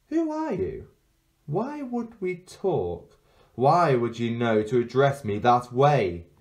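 put-on high, slowed-down questioning girl; suspicious girl. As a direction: demand answers, wary.

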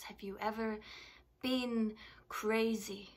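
a touch of defiance, with long pauses; challenged patient. Acted. Plays patient confronting doctor in monologue.

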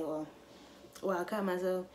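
casually matter-of-fact. Shown as a demonstration. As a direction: say it offhand, like it is no big deal. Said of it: "I could just casually say".

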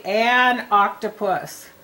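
"An" slow and weighted before "octopus"; stress on AN. Shown as a demonstration. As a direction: lean on "An" slowly. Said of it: "so you have to say".

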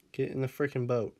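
firm order with falling end; understated exasperation at a stubborn pet; mildly exasperated. Real, not acted. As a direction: lose patience a little, landing it downward. Losing patience with the dog.

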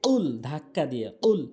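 কুল with a forceful q from the tongue root; কুল with a jolt from the back; throat-driven qaf; pushed qaf. Shown as a demonstration. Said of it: "কফটা হচ্ছে জিহ্বার গোড়া থেকে উচ্চারণ হয়".

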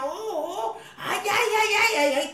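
high, repeated cries of alarm; hammed-up panicky yelps rising in urgency; mock panic. Rider on camel heading for a cliff, mock panic.

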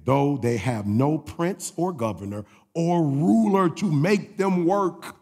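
slow, deliberate reading with held words; scripture reading. Real, not acted. Preacher reading a verse to the church, slow and deliberate. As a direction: read the verse out slowly and weightily.

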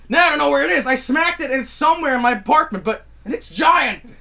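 high-pitched distressed complaint; high fretful pleading; anxious panic. Real, not acted. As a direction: whine in real alarm. Wasp loose in apartment.

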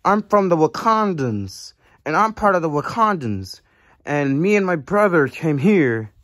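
light put-on Wakandan accent. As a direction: speak with a faint Wakandan accent. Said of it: "what kind of accent is that?".

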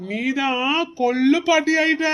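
slow, proud reveal to grandma; teasing, drawn-out good news; proud announcement. Acted. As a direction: stretch it out, savouring the big news. Son announces the pregnancy news.

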